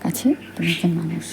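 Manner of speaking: soft secret whisper; hushed whisper. Acted. Reminds the robot in a hushed whisper. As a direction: keep it hushed and private.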